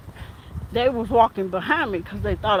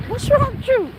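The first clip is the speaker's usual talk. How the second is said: retold shout; 12 semitones higher than usual. Officer confronting patient.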